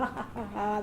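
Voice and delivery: soft mock ha-ha; imitated laughter. Office girls laughing at the new assistant, mock laughter. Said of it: "All the girls are laughing".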